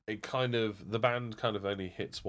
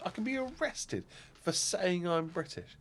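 high-pitched imitated disbelief; high, put-on astonishment; mock incredulity; 9 semitones higher, 3 dB quieter than usual. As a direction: play the passenger who can't believe it. Quoted bit, incredulous passenger questioning.

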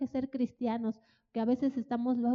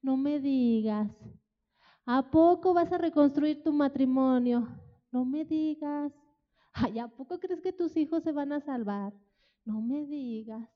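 mocking disbelief. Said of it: "empezaron a decirles".

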